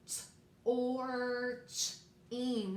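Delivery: "t, or, ch, ing" as separate phonics sounds; sounded-out chunks. Shown as a demonstration. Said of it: "a lot of hunks and chunks".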